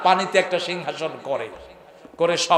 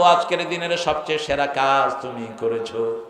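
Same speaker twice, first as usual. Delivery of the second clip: lower, softer sly Satan voice; Satan hugging his best minion, gloating quietly; Satan praising; 5 semitones lower, 3 dB quieter than usual. Acted. (নিচু স্বরে শয়তানের প্রশংসা)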